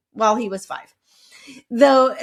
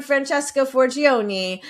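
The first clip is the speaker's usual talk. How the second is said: put-on Italian accent; 3 semitones higher, slower than usual. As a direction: roll out the name with Italian flair. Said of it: "in a horrible Italian accent".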